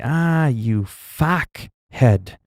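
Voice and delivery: slow "fuckhead" with the first vowel opened to "fack"; altered pronunciation. Shown as a demonstration. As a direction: draw out "fuckhead" as "faaack-head". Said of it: "switch up the sound of the name a bit".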